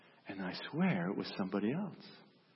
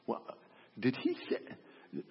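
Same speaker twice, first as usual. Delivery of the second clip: stunned; 2 semitones higher, slower than usual. Acted. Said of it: "just stunned".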